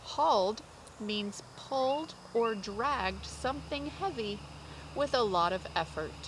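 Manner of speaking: slow, loud, straining "Hauled" as if pulling; effortful emphasis. Shown as a demonstration. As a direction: act out the effort. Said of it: "defines with effort".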